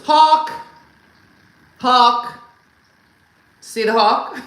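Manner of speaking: loud excited shout, pointing out a bird; mock excited yell of a husband spotting a hawk; husband's sudden shout. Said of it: "All of a sudden he goes".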